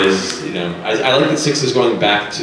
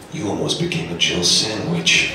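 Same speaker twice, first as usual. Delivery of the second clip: slow, gruff game-character line; Barry impression; 5 semitones lower, 3 dB quieter than usual. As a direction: deliver it like cheesy game dialogue. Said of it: "they're all Barry from Resident Evil one".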